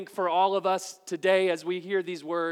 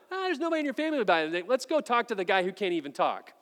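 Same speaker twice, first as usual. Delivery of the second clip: scoffing relatives; much faster than usual. Retold or imitated. Pastor voices the dismissive relatives.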